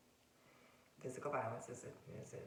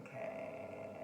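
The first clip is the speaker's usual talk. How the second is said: chill okay; 6 semitones lower than usual. Retold or imitated. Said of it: "standing there chill".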